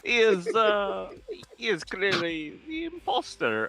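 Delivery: lightly voiced snob, rising pitch; snooty voice. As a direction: play the haughty impostor. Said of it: "hear Lich Doom's voice again".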